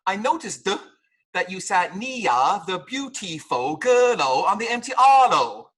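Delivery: mock accent, I noticed with a d ending, L dropped in beautiful; hollow shouted out loud at the end; mock Cantonese English. Shown as a demonstration. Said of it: "So, don't say".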